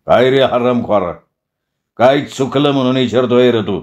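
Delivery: understated wrestler's threat; threatening interrogation. Acted. Village wrestler questions the captured stranger, mildly threatening. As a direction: demand answers with a touch of menace. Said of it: "हणम्या पैलवानानं आसाडी दम भरला".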